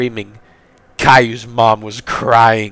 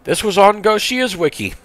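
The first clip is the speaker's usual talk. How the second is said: much higher, squeaky disbelief; astonished; 11 semitones higher than usual. Real, not acted. Reader learning which wiki had this, astonished high voice. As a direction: let the pitch leap up, then fall.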